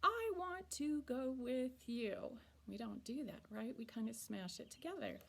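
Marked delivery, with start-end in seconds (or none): 0.0-2.4 slow, want to spoken clearly apart; slow full form. Shown as a demonstration. Teacher showing the careful version, slowed down. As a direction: want to said as two clear words, not wanna.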